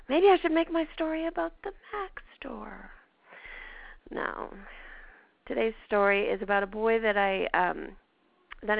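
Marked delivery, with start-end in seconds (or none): 0.1-2.9 conspiratorial whispered aside. Real, not acted. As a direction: whisper it to yourself.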